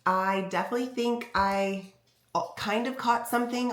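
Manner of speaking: stuffy, blocked-nose voice; congested voice. Real, not acted. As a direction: talk through a head cold, congested. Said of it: "sorry if I sound a little congested".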